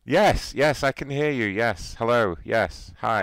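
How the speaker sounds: put-on caller voice.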